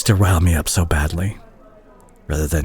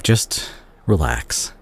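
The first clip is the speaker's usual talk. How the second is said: soothing; 3 dB quieter, much slower than usual. Acted. Soothing the patient.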